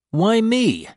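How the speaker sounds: high, loud demand; demanding shout. A narrator's reading. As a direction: demand an answer. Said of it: "I demand".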